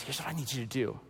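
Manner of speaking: hushed, low, confiding instruction; imitated whispering. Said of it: "God is whispering to Ananias".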